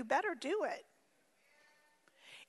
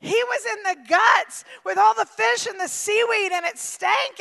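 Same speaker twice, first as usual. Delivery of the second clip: said bluntly; 2 semitones higher than usual. Shown as a demonstration. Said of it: "We say it nice".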